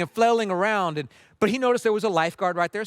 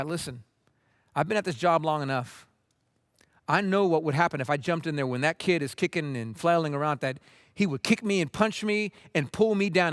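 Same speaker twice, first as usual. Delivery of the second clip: calm, retold explanation; 2 semitones lower than usual. Lifeguard explains the wait to the livid man, calm. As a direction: explain it evenly, without rising to the anger. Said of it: "he didn't get angry. He just told the guy".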